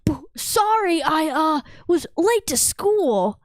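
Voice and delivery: mock-flustered schoolboy; flustered late student. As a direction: play a student apologising for being late. Plays flustered student running into someone.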